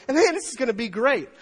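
high, loud crowd excitement; loud exclamation. Retold or imitated. Preacher voicing the multitude seeing Jesus, loud exclamation. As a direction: exclaim like a thrilled onlooker. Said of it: "exclaiming in loud voices".

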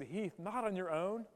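a quiet, fatherly correction; God's soft voice. Retold or imitated. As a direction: say it softly, as God speaking close to your ear. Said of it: "God has whispered in my ear".

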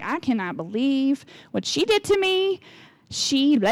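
mock-outraged, dragging out the grievance; acted indignant venting. Calling up friends to complain about her, hammed-up mad. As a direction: play up being mad for a sympathetic ear. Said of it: "I like to be mad sometimes".

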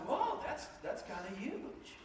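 high gasp of wonder then hushed and slow; stunned whoa sinking into a slow murmur; awed whoa. Retold or imitated. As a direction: let the wonder drop to a slow hush. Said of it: "I'm like".

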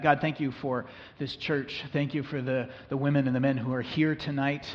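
gentle, earnest prayer voice. Acted. Leads a congregational prayer.

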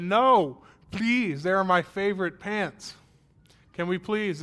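put-on high, loud childish begging; pleading kid. Child begging his mom to keep torn jeans, pleading. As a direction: beg mom to keep the pants.

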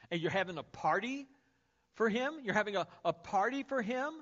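indignant questions rising in disbelief; older brother can't believe the party, hurt disbelief; mock angry disbelief. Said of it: "becomes very angry".

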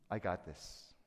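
ordinary talk, nothing marked

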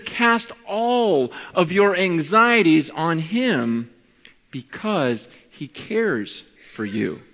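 gentle reading. Shown as a demonstration. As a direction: lay the verse down gently and slowly. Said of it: "The Bible says in First Peter five seven".

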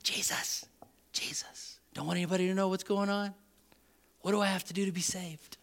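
hushed, furtive stage whisper; secretive whisper. Retold or imitated. Nicodemus to Jesus in the dark of night, secretive whisper. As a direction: whisper it so nobody overhears. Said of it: "comes in the dark of night".

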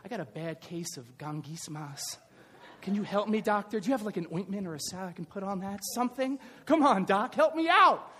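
lightly voiced sick patient pleading with a laugh; mock patient. Pastor joking as a patient asking the doctor for ointment, mock pleading. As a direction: play a whiny patient begging the doctor. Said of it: "sounds like some rash or disease".

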